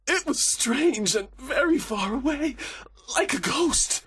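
high, slow, haunted dread; terrified prisoner. A narrator's reading. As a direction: recall it in fearful awe. Terrified prisoner recalls ghostly voice.

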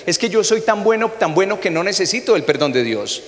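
self-righteous person. Retold or imitated. A pastor mimicking self-righteous churchgoers, smug. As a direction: brag about being good. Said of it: "la gente siempre se pregunta".

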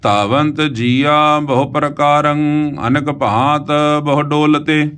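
slow, loving recitation of the verse; with love. Shown as a demonstration. Teacher modelling a loving recitation of the verse for students. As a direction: recite it tenderly and unhurried. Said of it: "ਇਹਦਾ ਉਚਾਰਨ ਵੀ ਆਪਾਂ ਪਿਆਰ ਨਾਲ ਕਰਨਾ ਹੈ".

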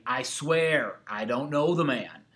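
firmly sworn denial; emphatic oath. Acted. Teacher voicing Peter's oath, emphatic denial. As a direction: swear it with some extra force. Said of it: "He added this oath to it".

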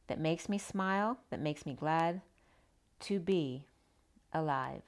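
slow, lilting poem recitation; unhurried heartfelt poem read. Acted. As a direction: recite it gently like a greeting-card verse. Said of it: "And then the poem".

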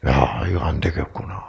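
low, hushed note to self; muttered self-talk. Retold or imitated. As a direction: retell a private realization under the breath. Retelling his own worried realization.

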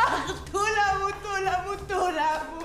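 sobbing the name repeatedly; crying. Acted. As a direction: wail to a friend for comfort. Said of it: "γιατί κλαις".

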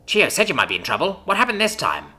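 excitedly. A narrator's reading. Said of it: "she asked excitedly".

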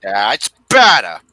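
low, slow, drawn-out imitation; deep slow mock voice. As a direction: drag it out in a deep voice. Deep put-on repeat.

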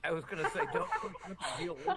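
laughing through the words, pitch jumping high. Real, not acted. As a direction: giggle out a joking plea. Guest jokes, breaks into laughter.

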